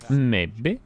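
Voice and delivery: sing-song Norwegian lilt; Norwegian accent. Shown as a demonstration. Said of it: "That was my Norwegian accent".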